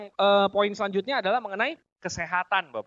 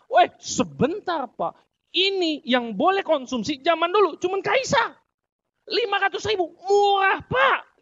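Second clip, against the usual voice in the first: much higher and louder, slow hard sell; overblown sales pitch; 8 semitones higher, 5 dB louder, slower than usual. Acted. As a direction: oversell it like a pushy seller. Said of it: "Nadanya begitu". (salesman lebay dengan nada tinggi dan keras)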